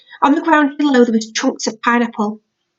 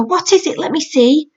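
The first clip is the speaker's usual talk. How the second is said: put-on eager little boy; 5 semitones higher than usual. Max eager to see.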